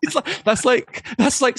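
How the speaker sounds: breaking up with laughter mid-joke; laughing. Real, not acted. Host mocking the Terminator's lines to co-hosts, laughing.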